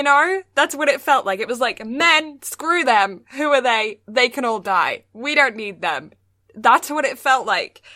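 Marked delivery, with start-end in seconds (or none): 1.9-6.1 mock girl power. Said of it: "a man trying to write girl power".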